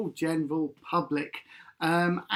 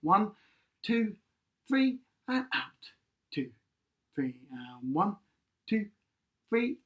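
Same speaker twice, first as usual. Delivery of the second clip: counted breathing; 3 semitones lower than usual. Shown as a demonstration. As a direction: count the breath calmly like a teacher. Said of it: "we're gonna breathe in for three counts".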